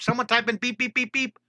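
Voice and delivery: high, bright chant to the chat; sing-song beep call. Real, not acted. Art teacher urging live chat to type beep, high sing-song call. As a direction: call the beeps up high and bouncy. Livestream, calling for chat beeps.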